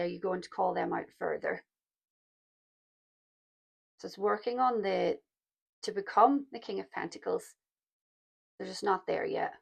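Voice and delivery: hoarse, croaky throat; slightly croaky speaking voice. Real, not acted. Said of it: "My croaky voice".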